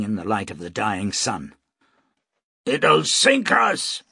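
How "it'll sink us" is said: higher, louder and slow, fearful shout; the master shouts his fear to Nu. A narrator's reading. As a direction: cry out in alarm at the warship. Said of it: "shouted Cornales".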